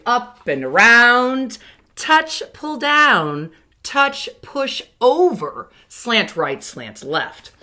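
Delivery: drawn-out writing-stroke cues, each one spaced; slow stroke names. Shown as a demonstration. Teacher naming writing strokes for kindergarteners, slow and drawn out. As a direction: call out the strokes slowly as if guiding a pencil. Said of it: "remember, we have".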